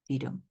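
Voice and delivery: light "dee" leading into stressed "dum". Shown as a demonstration. Teacher repeating the iamb for students, stress on "dum". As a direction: lean on the second syllable of "dee dum". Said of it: "your stress is on the second syllable".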